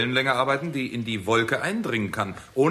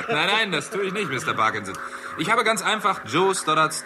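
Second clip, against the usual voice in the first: high, chuckling no, no; laughing denial; 7 semitones higher than usual. Acted. Lester laughing off Parkinson's accusation of a trick. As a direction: deny it through a chuckle.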